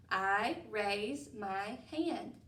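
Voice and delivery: very slow I love school, each word apart. Shown as a demonstration. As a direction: count each word slowly. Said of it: "say that with me".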